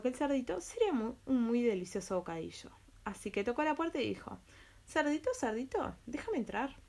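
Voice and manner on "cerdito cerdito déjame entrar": wolf voice. Acted. Wolf knocking at the door.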